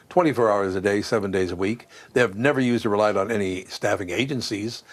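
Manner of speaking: measured, even sponsor read; radio host's live endorsement read. Real, not acted. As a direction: read the sponsor copy with steady emphasis. Host reads a sponsor ad.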